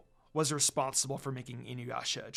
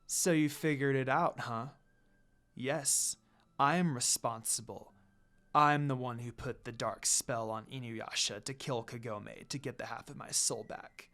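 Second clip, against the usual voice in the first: dark smirk; 3 semitones lower, 4 dB quieter than usual. Acted. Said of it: "Kikyo said with a dark smirk".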